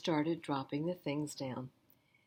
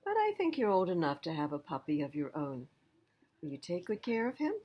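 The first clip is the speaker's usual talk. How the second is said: Granny Bird's voice; faster than usual. Acted. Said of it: "Granny said with a smile".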